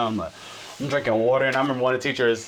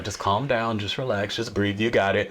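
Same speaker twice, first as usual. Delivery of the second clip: lower, slightly softened coaching voice; soothing reassurance; 3 semitones lower than usual. Retold or imitated. Yoga teacher settling fidgeting students, mildly soothing. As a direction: gently talk them down.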